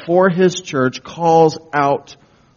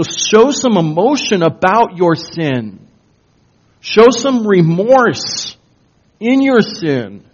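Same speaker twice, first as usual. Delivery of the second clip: impassioned exhortation; 4 semitones higher, 4 dB louder than usual. Real, not acted. Preacher urging the church to repent, loud and pleading. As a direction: cry out to the congregation to feel remorse.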